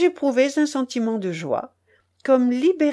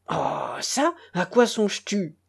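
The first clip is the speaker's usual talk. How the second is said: angry question. Acted. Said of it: "me demanda-t-il avec colère".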